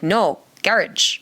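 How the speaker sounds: "No, garage" drawn out as GARR-idge; slow British garage. Retold or imitated. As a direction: slowly repeat "garage" rhyming with carriage. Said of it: "he's like".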